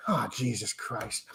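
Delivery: soft, slow groan of dread; under his breath. Retold or imitated. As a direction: mutter it slowly, dreading what comes. Dread at hater beside him.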